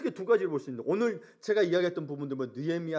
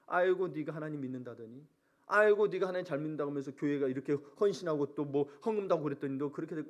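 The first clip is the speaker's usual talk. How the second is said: understated mock scorn. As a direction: jeer lightly under your voice. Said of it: "비웃고 조롱하고".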